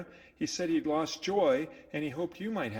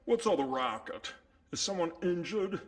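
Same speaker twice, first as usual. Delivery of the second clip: put-out, disturbed by noise; bothered character; grumbling character voice. Acted.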